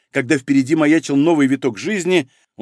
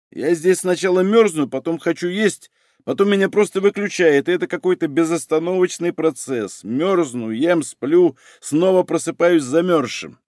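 higher-pitched plaintive complaint; whining; 4 semitones higher than usual. Acted. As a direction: whine a weary list of woes. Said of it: "неожиданно захныкал". (жалобное нытьё)

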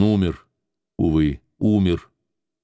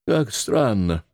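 plain reading voice

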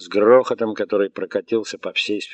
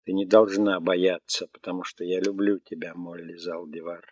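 robot voice. Acted. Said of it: "Высокий мелодичный голос робота".

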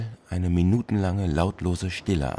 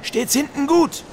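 captain hailing; 3 dB louder, slower than usual. Acted. Captain hails mate across ship.

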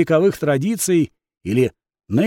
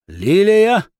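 Lilia called out higher and louder from the door; booming call; 5 semitones higher, 4 dB louder than usual. A narrator's reading. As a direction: boom the name Лилия across the room. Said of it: "громогласно донеслось от двери". (громогласно выкрикнуть «Лилия!»)

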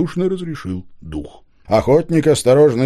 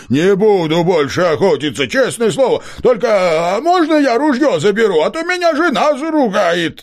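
pleading hunter; 10 semitones higher, 4 dB louder than usual. A narrator's reading.

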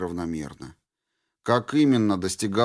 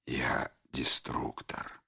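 тихий медленный шёпот; голос из головы; 9 semitones lower, 11 dB quieter, slower than usual. A narrator's reading. (шёпот деструктора)

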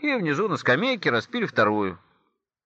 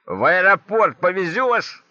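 put-on slow, raised drunk call; пьяный крик; 4 semitones higher, 4 dB louder, slower than usual. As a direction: call it out slowly, higher, like a drunk. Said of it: "и кричит". (протяжный пьяный выкрик)

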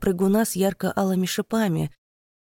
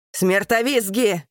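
a battle cry of alarm, drawn out; captain's warning shout; distant shouted warning; 3 semitones higher, 4 dB louder, slower than usual. A narrator's reading. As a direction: call out the enemy's name to the ranks. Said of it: "кричит где-то вдалеке капитан Келечи".

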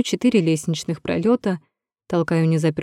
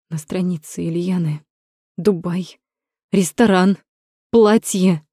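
clipped, rising tone. Acted. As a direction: spit out each word, building up. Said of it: "Бросает отрывисто, повышая тон с каждым словом".

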